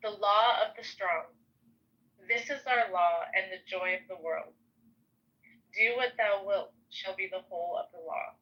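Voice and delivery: measured reading with pauses between lines; solemn recitation. Acted. Shy guest reading a powerful document to the host, measured recitation. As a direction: read it out as a declaration, line by line.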